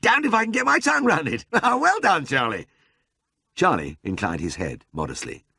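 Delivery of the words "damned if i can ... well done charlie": high-pitched delighted lord with a laugh; jubilant, laughing praise; intensely gratified. A narrator's reading. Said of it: "intensely gratified".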